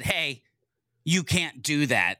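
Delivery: a slow, firm warning; slow stern warning. Retold or imitated. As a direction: lay down the rule slowly. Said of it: "until HubSpot said".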